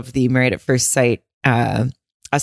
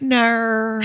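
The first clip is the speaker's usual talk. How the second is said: a high amused no dissolving into laughter; laughing no; 10 semitones higher than usual. Real, not acted. Host mocking the cast members, laughing out a high no. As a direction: deny it then crack up. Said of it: "no one could do that better than you".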